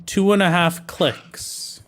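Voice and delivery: lightly put-on Canadian accent, drawn out. Streamer correcting kilometers to sound local, mock Canadian. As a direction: drawl it out slowly like a Canadian. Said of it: "I have to be Canadian".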